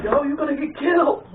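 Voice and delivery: high-pitched mock yell; loud, high, hammed-up warning; imitated warning yell. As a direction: call out like an alarmed cousin. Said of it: "he was like".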